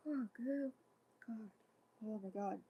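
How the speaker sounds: real jolt of surprise, breathy; startled gasp. Real, not acted. Reader startled by the click ending the hold music, gasping. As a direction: caught off guard, let it slip out.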